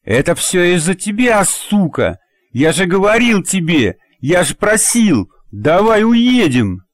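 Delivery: высоко, громко и медленно, с надрывом; выкрикнуть обвинение, срываясь; яростный выкрик. A narrator's reading. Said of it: "выкрикнул". (Ярчук кричит на Надю, в ярости)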